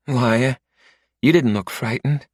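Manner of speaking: Rory, teasing. Acted. Narrator voices Rory.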